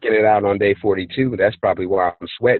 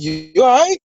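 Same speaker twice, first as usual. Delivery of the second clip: higher, lightly voiced worried question; concerned check-in; 4 dB louder than usual. To the fallen girl, a higher concerned question. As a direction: ask the fallen girl if she's okay. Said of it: "I'm like".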